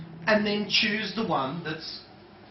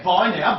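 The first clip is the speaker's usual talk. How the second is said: Buy now punched louder; stress on Buy now; 6 dB louder than usual. Shown as a demonstration. Trainer showing the embedded command, louder Buy now. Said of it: "B U Y now".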